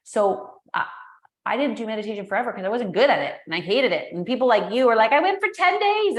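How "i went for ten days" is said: mock bragging. Mocking people who brag about meditating.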